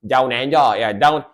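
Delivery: playful put-on Aussie accent; imitated Australian accent. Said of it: "one of the accents I love".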